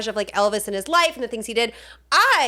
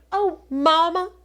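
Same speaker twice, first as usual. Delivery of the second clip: slow, tender, put-on murmur; gentle impression of a singer; 5 semitones higher, slower than usual. Son holding mother's face, slow imitated tenderness. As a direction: draw it out adoringly, imitating a doting son. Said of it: "just ever so gently".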